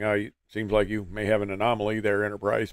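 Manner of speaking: low, cool, unhurried radio calm; nasa pilot voice. Retold or imitated. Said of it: "low, cool nasa pilot voice".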